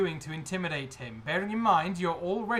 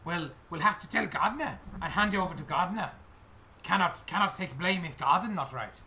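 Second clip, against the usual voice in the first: put-on wary accented goblin official; goblin guide; 3 semitones higher than usual. Goblin guide passing inspectors to the gardener, wary accented voice. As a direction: disclaim it in broken, accented English.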